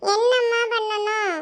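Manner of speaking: put-on slow, high, drawn-out child voice; high child's voice, stretched words; resigned child. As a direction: drag it out like a reluctant kid. Child asks mother what to do.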